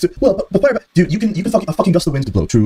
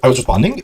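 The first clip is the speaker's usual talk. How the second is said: mocking rise at the end of a plain statement; imitating an upward inflection on "I was responding"; mock uptalk. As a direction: parrot "responding" with a question-like lift. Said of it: "high-pitched inflection at the end of a statement".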